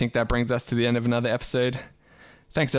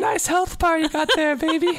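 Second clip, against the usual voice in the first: very high, hammed-up sleazy flirt; sleazy pickup voice. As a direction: ham up a cheesy pickup line. Mocking a flirty gamer guy.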